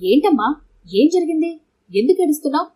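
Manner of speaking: a worried father calling out to his crying daughter; rising panic over the phone; alarmed father. A narrator's reading. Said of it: "Satish కంగారు పడిపోయి".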